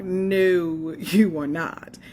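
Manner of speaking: telling her uncle no while laughing. Retold or imitated. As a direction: playfully shut him down through a laugh.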